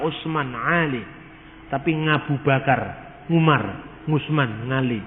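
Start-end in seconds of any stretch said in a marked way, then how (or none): 1.7-5.0 Javanese accent. Shown as a demonstration. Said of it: "Orang Jawa tidak bisa ngomong huruf Ain".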